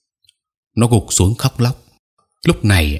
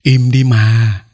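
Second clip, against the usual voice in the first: tearful plea; 3 semitones higher, 4 dB louder, much slower than usual. Acted. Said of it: "nó bắt đầu khóc mếu máo".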